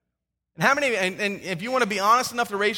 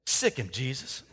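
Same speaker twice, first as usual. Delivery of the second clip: low, soft deadpan command; parrot punchline; 9 semitones lower, 8 dB quieter than usual. Acted. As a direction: drop the punchline low and dry. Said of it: "the parrot says".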